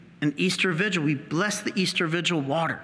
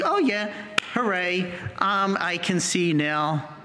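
flat mock joy. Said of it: "would just be like".

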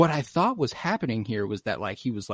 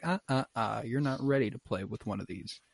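lightly teasing villain's tut-tut, trailing softer; retold taunt; 4 dB quieter than usual. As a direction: gently scold a child reaching for a forbidden toy. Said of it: "Gideon taunts him".

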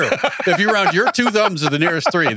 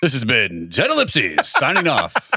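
announcer sign-off; 3 semitones lower, slower than usual. Pretend. Mock radio sign-off.

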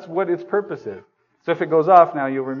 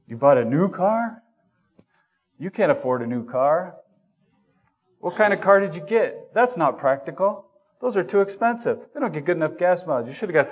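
jealous scoffing; 4 semitones higher than usual. Pretend. Envious churchgoer to friend with new car, scoffing then ranting. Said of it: "What's your first reaction to that".

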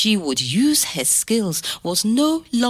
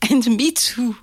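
whisper; 3 semitones higher than usual. Acted. Grandmother confiding to grandson, a whisper. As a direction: whisper it close to the child.

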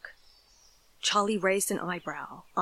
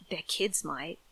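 grumbling; 2 semitones lower, 4 dB quieter than usual. Acted. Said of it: "Charlie grumbled".

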